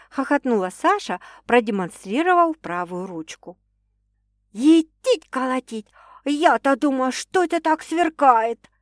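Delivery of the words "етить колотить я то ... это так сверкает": guffawing. A narrator's reading. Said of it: "заржала сестра".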